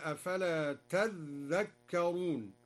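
تذكرون with stressed double dhal, tadhdhakkaruun, slow; doubled dhal. Shown as a demonstration. Teacher demonstrates al-Duri's doubled dhal. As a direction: slowly recite تذكرون with shadda on the dhal. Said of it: "وشدد الذاء".

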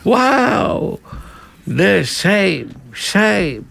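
high-pitched drawn-out parliamentary jeering; mock House of Commons heckle; heckling British MPs. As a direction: imitate MPs crying shame across the chamber. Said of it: "βριζόνται αυτοί".

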